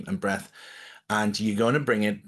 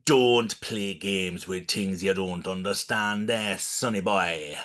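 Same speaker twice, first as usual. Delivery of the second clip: slow, lightly done Louisiana shopkeeper drawl; a hint of New Orleans voodoo woman warning; Louisiana accent; 3 semitones lower, slower than usual. Shopkeeper warns a meddling customer, slow mild Louisiana accent. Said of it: "in that accent".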